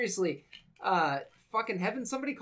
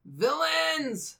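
high, punchy one-word hype; hyped exclamation; 9 semitones higher than usual. Pretend. Co-host asked about villains, hyped exclamation. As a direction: echo it back with mock fanfare. Echoes co-host's question as hype.

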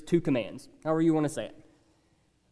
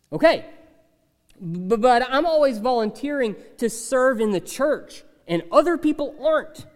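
mock objector; 5 semitones higher than usual. Imagined complaining listener.

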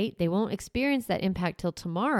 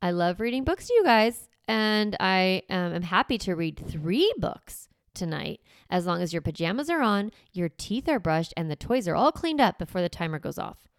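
demo parent voice. Shown as a demonstration. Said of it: "This is my example".

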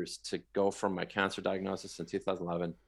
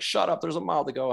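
higher-pitched retort, mildly exasperated; mock protest, pitched up; retold protest; 8 semitones higher than usual. Runner to friend calling him a marathoner too early, retold protest.

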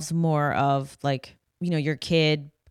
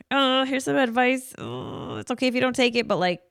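gentle advice; 8 semitones higher than usual. Retold or imitated. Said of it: "you know".

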